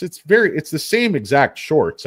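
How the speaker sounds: hyped about the chart; excited. Real, not acted. Excited market commentary.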